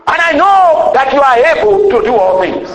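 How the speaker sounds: voice of faith. Pretend. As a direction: lift it up like a prayer of certainty. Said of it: "But if you say".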